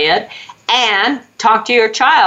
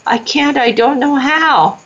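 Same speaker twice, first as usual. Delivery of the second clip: put-on small child voice, pitched much higher; little girl; 8 semitones higher than usual. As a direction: play the helpless young girl. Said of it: "the little eleven-year-old girl is going".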